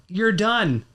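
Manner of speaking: mildly angry cutoff, pitched high; retold firm dismissal. Guest retelling how he dropped a midnight caller, mildly angry. Retelling firing a client on phone.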